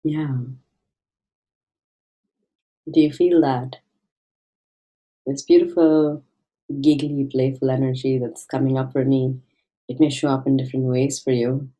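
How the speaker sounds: gentle meditation guide with long pauses; guided meditation. Acted. Meditation guide invites listeners to find their childlike playfulness, gentle guiding voice. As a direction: ease listeners inward, leaving space between phrases.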